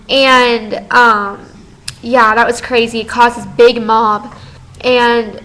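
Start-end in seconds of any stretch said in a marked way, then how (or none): 4.8-5.4 voice crack. Real, not acted. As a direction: voice cracking mid sentence. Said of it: "I think I just had a voice crack".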